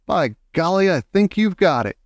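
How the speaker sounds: high, delighted exclamation; thrilled approval with lifted pitch; excited cry. A narrator's reading. Grandmother hears a workable plan, crying out excitedly. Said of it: "my grandmother cried out".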